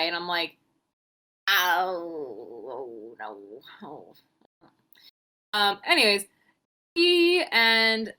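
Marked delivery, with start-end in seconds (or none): 1.5-4.1 mock sob. Mocking a lost friend with a fake sob.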